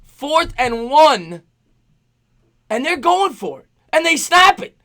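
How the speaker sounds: slow high buildup to a shouted climax; live football call climbing to a loud, high yell; excited play-by-play. Real, not acted. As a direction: call the snap, exploding on the stop.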